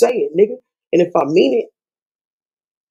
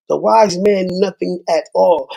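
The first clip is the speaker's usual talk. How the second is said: repeats "The wise man knew nothing at all" slower, each word landing; slow, weighty repeat; slower than usual. Shown as a demonstration. To YouTube viewers, quoting the wise man, slow and weighty. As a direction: lean on every word like a proverb.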